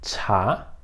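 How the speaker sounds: chá with a strong puff of air on the ch; chá as Chinese chá, aspirated. Shown as a demonstration. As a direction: blow the ch of chá out like a breath. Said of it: "também você vai assoprar ele".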